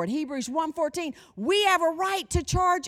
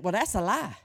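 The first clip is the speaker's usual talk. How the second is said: normal talking voice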